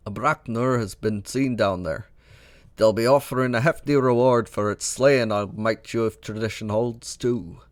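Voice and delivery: a loose, half-Scottish dwarf voice; a gamer's own voice stretching toward a Scottish dwarf; attempted Scottish dwarf. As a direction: read the old dwarf with a try at a burr. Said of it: "I apologize if that was a terrible accent".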